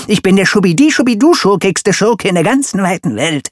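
loud, high sing-song boast; grand boast. Acted. Villain proclaiming himself the worst, loud sing-song. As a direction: build to a gleeful loud climax.

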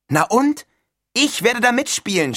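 high, loud, indignant outburst; excited cry. A narrator's reading. Neil throws back his roommate's question, crying out excitedly. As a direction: cry it out, thrilled and incredulous. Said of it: "schrie Neil und warf sich auf sein Bett".

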